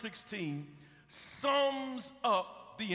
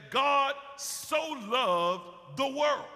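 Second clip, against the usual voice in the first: preaching peak; 4 semitones higher, 4 dB louder, slower than usual. Acted. Preacher climaxes on "world.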